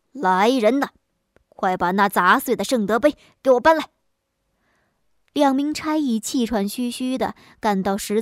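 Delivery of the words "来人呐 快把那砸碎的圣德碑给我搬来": louder magistrate calling for his men; furious shout. Acted. Enraged magistrate shouts for his constables, loud. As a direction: yell the order across the hall. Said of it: "他大叫一声".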